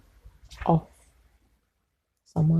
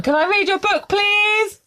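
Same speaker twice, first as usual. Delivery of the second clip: much higher, sweetly begging; high pleading voice. Acted. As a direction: ask like a hopeful child. Asks permission in acted dialogue.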